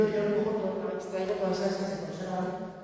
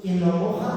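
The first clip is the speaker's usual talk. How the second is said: moja said louder with a rise; stressed moja; 7 dB louder than usual. Shown as a demonstration. Teacher stressing moja for the class. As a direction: lean on moja, rising at the end. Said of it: "lo junta".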